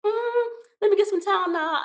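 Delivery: high, laughing stubborn reply; playfully insisting on the Tylenol; laughing insistence. Retold or imitated. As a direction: brush off his worry with a laugh. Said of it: "I said".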